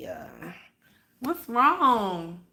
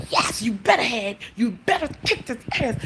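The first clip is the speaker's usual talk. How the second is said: sly whisper; 3 semitones higher than usual. Retold or imitated. Whispered praise to cat.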